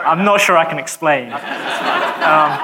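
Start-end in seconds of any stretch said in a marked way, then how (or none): 0.1-1.3 laughing through the words; real giggle while speaking. Real, not acted. Preacher laughs at his own joke.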